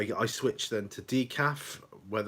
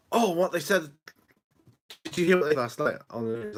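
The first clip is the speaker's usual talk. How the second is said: put-on higher, louder, excited old mum; imitating mum; 6 semitones higher, 6 dB louder, faster than usual. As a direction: mimic an eager elderly mother. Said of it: "She goes".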